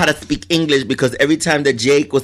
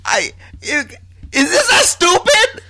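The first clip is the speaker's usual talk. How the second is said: high, slowed, half-crying laugh; laughing in disbelief; 10 semitones higher than usual. Real, not acted. Co-host laughing in disbelief at the silly plot, high and teary. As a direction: fall apart laughing at how stupid it is. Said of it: "crying with laughter".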